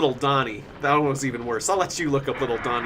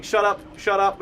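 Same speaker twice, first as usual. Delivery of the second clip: put-on special kid voice; 5 semitones higher than usual. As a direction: bark it like a blunt kid. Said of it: "He would walk up to his mommy".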